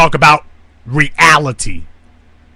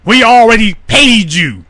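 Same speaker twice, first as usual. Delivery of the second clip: defiant speech; 3 semitones higher than usual. Retold or imitated. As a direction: build it up like a leader defying a foreign power. Voicing Mossadegh's defiant speech.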